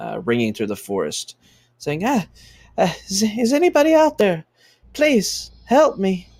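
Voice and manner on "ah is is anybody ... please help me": halting, very high-pitched feminine voice. Voicing a distant voice calling for help through the forest: very feminine voice. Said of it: "it sounds very feminine".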